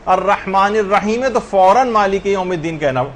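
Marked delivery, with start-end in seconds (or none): 0.1-1.3 الرحمن الرحیم ہے with the last م running into "-me"; final zer voweled. Shown as a demonstration. Teacher shows linking without a pause, connected recitation. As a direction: leave الرحمن الرحیم ہے open on a short vowel, ready to join. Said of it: "اس کے نیچے زیر لگا دیا".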